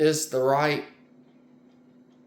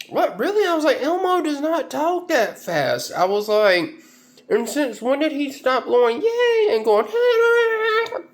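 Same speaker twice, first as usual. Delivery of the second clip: mock indignant; 14 semitones higher than usual. His own hurt retort retold.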